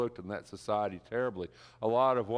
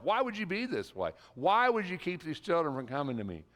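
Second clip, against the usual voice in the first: indignant Jesus; 7 semitones higher than usual. Acted. Jesus voiced, indignant at disciples.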